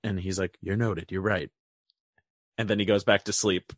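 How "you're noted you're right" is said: low, soft drowsy mumble; mock sleepy boss. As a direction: brush it off half asleep. Voicing Crawford sleepy reply.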